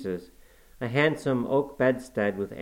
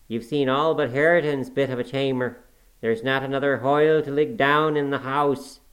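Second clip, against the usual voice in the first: loud, higher scolding dialect; grumbling old servant; 5 semitones higher, 5 dB louder than usual. A narrator's reading. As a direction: scold her like a pious old grouch. Joseph's dialect voice.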